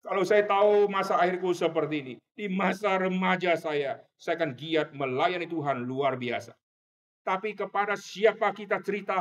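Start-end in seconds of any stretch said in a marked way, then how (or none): 0.0-6.5 mild retold cry. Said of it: "dia berteriak kalimat seperti itu".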